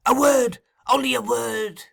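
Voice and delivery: high cry, easing in volume; urgent plea. A narrator's reading. Fagin pleading after Sikes, high and urgent. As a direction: beg for attention urgently.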